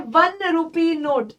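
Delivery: वन rupee note slowly, with a clear w sound on वन; say it aloud. Shown as a demonstration. Teacher has students say वन rupee note aloud. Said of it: "बोलकर देखो वन rupee note".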